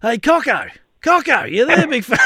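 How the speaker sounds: imitated calling out. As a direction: call through the house as the waking guest. Retold guest calling out next morning.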